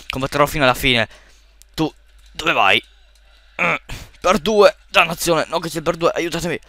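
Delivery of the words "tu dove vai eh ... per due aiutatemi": voce acuta e allungata di panico. Real, not acted. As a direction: supplica aiuto allungando le parole. Chiede aiuto in panico. (panico concitato)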